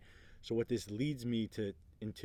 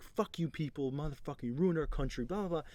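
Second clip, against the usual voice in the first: retold angry tirade; 5 semitones higher than usual.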